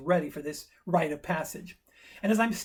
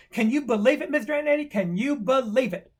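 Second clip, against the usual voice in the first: higher-pitched eager disbelief; amazed kid; 4 semitones higher, 4 dB louder than usual. Retold or imitated. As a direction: marvel like an excited boy. Acted boy amazed at discovery.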